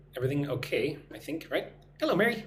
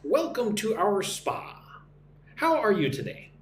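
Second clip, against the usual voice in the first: slow, clearly separated teaching delivery; slow model reading; 4 semitones higher than usual. Shown as a demonstration. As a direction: model it slowly for learners to repeat. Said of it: "Listen and repeat".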